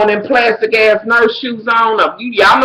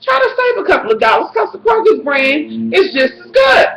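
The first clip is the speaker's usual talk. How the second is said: high-pitched mock-reasonable voice; sensible shopper; 5 semitones higher than usual. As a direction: lightly imitate a thrifty shopper giving advice. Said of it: "normally a person would be like".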